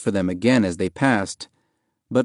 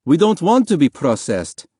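higher-pitched objection; protesting; 6 semitones higher, 3 dB louder than usual. A narrator's reading. Father objecting to soldiers' order to be processed, protesting. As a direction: push back against the order.

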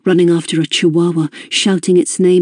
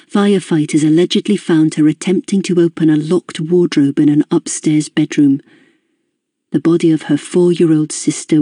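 measured newsreader delivery; news report read. A narrator's reading. Narrator reading the news report to the reader, measured and formal. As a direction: read it like a broadcast news item.

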